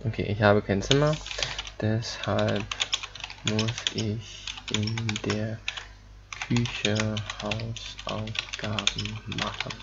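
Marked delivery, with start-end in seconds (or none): 1.8-9.7 slow careful reading. Shown as a demonstration. Reading German example sentence slowly.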